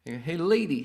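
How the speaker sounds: imitating Howie Mandel yelling at a lady; retold heckle shout. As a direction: bark it back at the heckler in mock. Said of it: "kept yelling at him".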